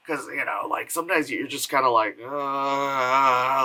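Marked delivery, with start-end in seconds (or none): 2.2-3.6 long, level drawn-out "uh"; bored groan. Acted. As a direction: groan as if it drags on forever. Imitates bored reaction to long films.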